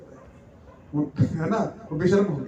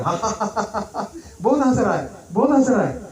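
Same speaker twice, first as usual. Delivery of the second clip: donkey laughing; 3 semitones higher than usual. Acted. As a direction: cackle like a donkey who finally got the joke. Donkey laughing a day late.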